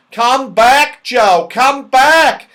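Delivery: loud, slow, frightened call; yelled. A narrator's reading. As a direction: bellow after Joe in fright. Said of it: "yelled Moonface".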